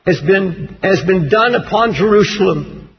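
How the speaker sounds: low, measured scripture reading. Acted. Preacher reading Daniel's prayer to congregation, solemn low reading.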